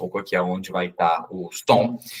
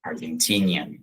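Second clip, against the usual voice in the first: whispered demo; 3 semitones lower, 4 dB quieter than usual. Shown as a demonstration. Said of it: "termina com esse an".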